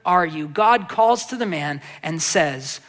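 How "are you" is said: slow, drawn-out "Where are you?" as a calling question; slow emphasis. Shown as a demonstration. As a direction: linger on each word of the call. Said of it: "underline that phrase".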